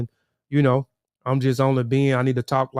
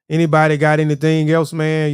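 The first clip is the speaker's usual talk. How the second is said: calling out; 3 semitones higher, 6 dB louder than usual. Real, not acted. Calling out to the chat.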